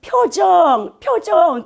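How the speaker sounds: high, drawn-out teacher's call; instructing ballet professor. Retold or imitated. Ballet professor ordering students during rehearsal, high commanding call. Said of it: "계속 이렇게 하는 거예요".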